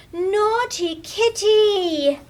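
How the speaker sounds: high, slow, loud scold; a child's drawn-out telling-off. Acted. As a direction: drag out each word in shocked scolding. Lily finds kitty's mess.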